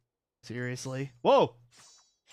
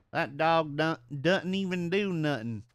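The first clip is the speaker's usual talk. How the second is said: southern twang, "doesn't" as "dudn't"; southern accent; 2 semitones higher than usual. Shown as a demonstration. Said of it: "far more of a southern accent".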